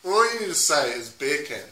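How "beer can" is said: "beer can" as Jamaican "bacon"; lightly Jamaican-accented beer can. Shown as a demonstration. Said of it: "to sound Jamaican".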